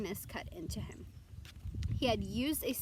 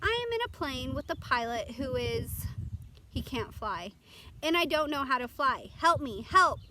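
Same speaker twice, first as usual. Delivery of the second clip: rising, louder frightened begging; panicked plea; 4 semitones higher, 6 dB louder than usual. Acted. Boy tells the radio he can't fly, frightened pleading. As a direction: plead for rescue, voice climbing in fear.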